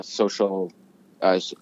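talking through a held-back burp; words pushed out around a burp. Real, not acted. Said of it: "I'm trying to burp and talk at the same time".

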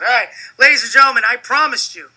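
fast hyped host intro; quick showman welcome; announcer voice. Acted. Hosting intro to audience.

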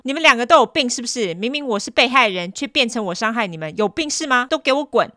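loud angry rant; retold telling-off. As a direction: snap at them both. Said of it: "他就说".

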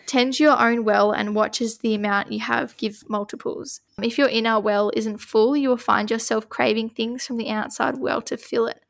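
measured oracle card reading; steady reading-aloud voice. Acted. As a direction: read the card out evenly.

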